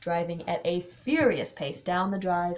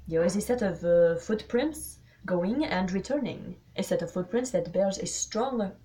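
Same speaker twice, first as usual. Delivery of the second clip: put-on deliberate, lightly French-accented accusation; measured foreign detective voice; Poirot; 4 dB louder than usual. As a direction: lay out the evidence piece by piece.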